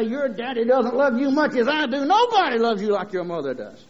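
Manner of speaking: put-on mother cooing while squeezing her child; playful mock-mother gush; imitated doting mother. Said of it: "her mother would get her up and squeeze and say".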